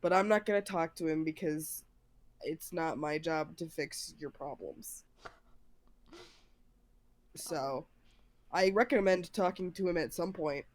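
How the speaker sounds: low, gruff and blunt; gruff Valente. Acted. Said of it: "here's a slightly lower register".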